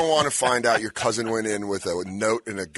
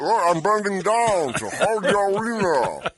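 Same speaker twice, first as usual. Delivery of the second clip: put-on lightly French-accented Andre; 4 semitones higher than usual. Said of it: "more of a French accent".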